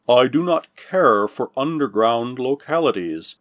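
put-on slow, gruff old hand. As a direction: grumble it gruffly and slowly. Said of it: "his gruff voice echoing strangely".

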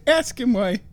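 high, sing-song drag queen gushing; Patrick Swayze as a drag queen. Retold or imitated. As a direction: coo over it like a fussing diva. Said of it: "Swayze's looking at ... and goes".

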